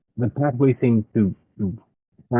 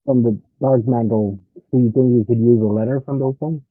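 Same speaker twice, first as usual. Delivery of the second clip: muffled and muted over the line. Real, not acted. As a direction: speak through a bad connection. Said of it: "he sounds very muted or muffled".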